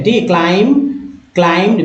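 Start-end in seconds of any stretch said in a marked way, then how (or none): 0.2-0.9 क्लाइंब said "klaim", ending on m; silent b. Shown as a demonstration. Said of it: "सिर्फ बी silent है". 1.3-1.8 क्लाइंब्ड said "klaimd", no b; silent b. Shown as a demonstration. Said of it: "बी यहाँ भी silent".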